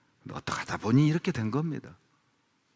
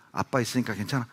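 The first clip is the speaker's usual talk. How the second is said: soft asking tone, rising on 괜찮아; quiet comforting question to a crying daughter; gentle reassurance; 4 dB quieter than usual. Retold or imitated. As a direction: coax a scared child with 아빠 있으니까 괜찮아, soft and rising. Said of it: "제가 우리 딸들에게".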